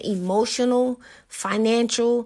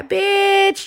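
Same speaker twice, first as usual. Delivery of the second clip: high, loud burst of disbelief; outraged yell; 11 semitones higher, 5 dB louder than usual. Acted. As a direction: blurt it out furious. Exploding at the quoted woman.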